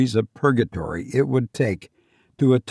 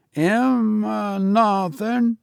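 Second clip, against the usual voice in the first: higher, eager Cockney lad, respectful; a nervous young servant answering his master; 10 semitones higher, much slower than usual. Acted. Thomas answers.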